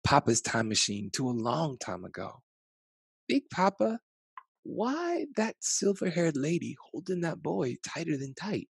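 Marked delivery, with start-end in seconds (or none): 3.3-8.7 put-on higher, softer little child voice; a curious small grandchild asking; lightly voiced child; child's voice. A narrator's reading. Child asks grandfather in story.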